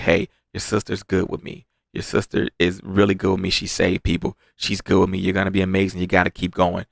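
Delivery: low, soft parting words; gentle dying farewell. Retold or imitated. Dying fighter encouraging his young comrade, low and hushed. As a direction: reassure softly, keeping the voice down.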